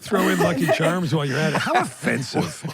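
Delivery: hammed-up stage Irish voice, high and loud; over-the-top Irish brogue with laughter; Irish accent. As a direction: do a cartoon leprechaun Irish. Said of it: "accent alert".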